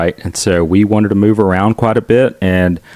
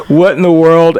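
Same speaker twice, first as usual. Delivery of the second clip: mock bewilderment; 8 semitones higher, 5 dB louder than usual. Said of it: "how the interactions of people's eyes".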